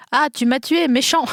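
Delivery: high, petulant mock whine; a childish reproach while dying; whiny dying king. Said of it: "le commentaire qu'il lui a fait". (roi geignard)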